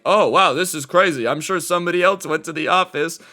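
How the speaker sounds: imitating idly amazed bystanders; clueless onlooker. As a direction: play a dopey bystander doing nothing. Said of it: "standing around like idiots".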